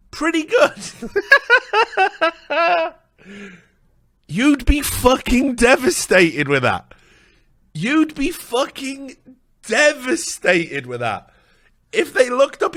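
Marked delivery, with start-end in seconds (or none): 0.1-0.8 high, light throwaway "pretty good"; tossed off like it's nothing; mock casual praise. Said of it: "And they say". 4.3-6.9 high, loud mock devastation; mock outrage. Mocking reaction to faint praise. 7.7-11.3 high, slow, drawn-out devastation; slow mock outrage. Repeated with slower emphasis.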